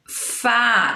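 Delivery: "Fá" held long with open á; open vowel sound. Shown as a demonstration. Teacher isolating the accented syllable, "Fá" long and open. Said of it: "é um som aberto".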